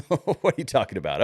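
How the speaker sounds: lightly put-on mocking viewer voice, repeating the question; a touch of a mock skeptical viewer. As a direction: echo the imagined viewer with a hint of mockery. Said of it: "you might be saying".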